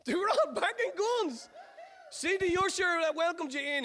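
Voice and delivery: high, loud laugh through the words. Real, not acted. Preacher telling the congregation, high and laughing.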